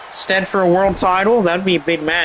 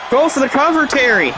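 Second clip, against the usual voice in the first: much higher, shouted urging; urgent shout; 6 semitones higher than usual. Real, not acted. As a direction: yell at the wrestler to pin now. Calling on wrestler to pin.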